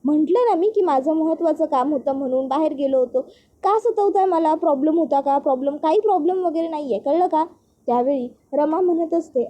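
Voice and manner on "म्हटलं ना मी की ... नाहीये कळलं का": lightly voiced annoyed brother, rising on the pushback; a retold snap, mildly heated; irritated outburst. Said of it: "अभ्या चिडतो". (चिडलेला, हलका वैतागलेला आवाज)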